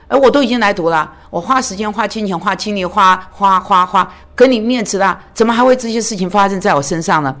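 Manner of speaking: mock indignant student protesting to God; a hint of wounded pride; aggrieved complaint.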